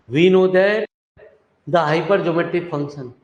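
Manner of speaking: drawn-out, word-by-word classroom dictation; slow dictation. Real, not acted. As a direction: dictate it slowly for note-takers. Repeats dictation while writing.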